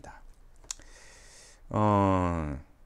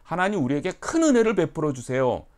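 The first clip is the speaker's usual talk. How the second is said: higher, louder petition; humble plea; 7 semitones higher, 7 dB louder than usual. Retold or imitated. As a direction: believer asking God, higher plea. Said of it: "라고 하는 이런 뉘앙스".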